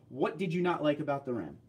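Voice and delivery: ordinary talk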